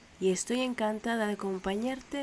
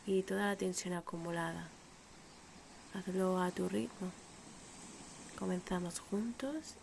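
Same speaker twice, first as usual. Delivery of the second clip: unhurried meditation voice with long pauses; measured, calm breathing-exercise delivery; guided meditation; 3 dB quieter than usual. Acted. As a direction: guide the listener gently through breathing, leaving space between phrases.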